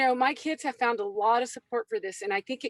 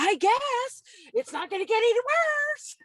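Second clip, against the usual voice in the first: put-on much higher, resigned boy's voice; higher, grudging child voice; reluctant kid; 13 semitones higher than usual. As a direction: give in like a doubtful kid. Reluctant kid agreeing to try.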